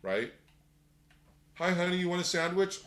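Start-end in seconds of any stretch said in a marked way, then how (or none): 1.6-2.8 light, quick and higher, a sweet wife's offer. Pretend. Wife sweetly offers her husband a sandwich, bright and quick. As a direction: chirp it like a cheerful wife.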